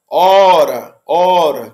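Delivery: "hora" with a drawn-out O; long open o. Shown as a demonstration. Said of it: "o ó sempre longo".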